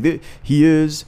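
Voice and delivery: announcer voice. Retold or imitated. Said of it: "He was like".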